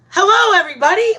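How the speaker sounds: quick, high, loud hello as if bursting open; mock scream. Flower voiced blooming open, high loud hello. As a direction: shout the greeting like the flower is screaming it. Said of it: "like, screaming at the top".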